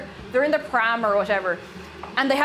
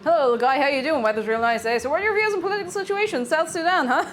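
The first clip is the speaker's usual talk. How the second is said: mock small talk; 2 semitones higher, faster than usual. Shown as a demonstration. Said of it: "not baby voice".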